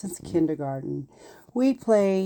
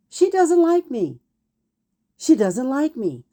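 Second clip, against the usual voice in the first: put-on raised, emphatic replay of a hurt child; retold shock, pitched up; stunned realization; 3 semitones higher, 5 dB louder than usual. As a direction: let the realization land louder, line by line. Child realizes the woman's hostility.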